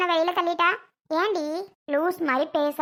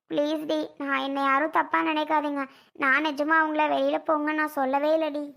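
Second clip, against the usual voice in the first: tearful pleading. Acted. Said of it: "அழுகு மூஞ்சி, இதுக்கேண்டி அழுதுட்டு இருக்க". (அழுதுகொண்டே மெதுவாகக் கெஞ்சுதல்)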